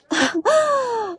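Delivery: a sudden high intake of breath; high sharp gasp. Acted. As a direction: gasp as if caught off guard. Acted shock in roleplay.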